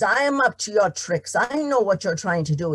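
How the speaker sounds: a farmer who has lost his patience; angry farmer. Acted. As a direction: seize him and bark it out. Tom shaking the leprechaun.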